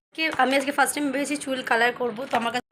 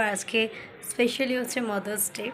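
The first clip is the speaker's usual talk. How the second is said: softer and slow, keeping it hushed; said softly; 6 dB quieter, slower than usual. Real, not acted. Telling viewers it's Mother's Day while mom is out, softly. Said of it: "আমি আস্তে আস্তে বললাম".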